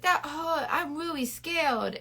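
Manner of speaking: high, slow, whispery pretend fright; ridiculous mock fear. Mocking the man after the pretend hammer, ridiculous mock fear. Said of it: "he was being ridiculous".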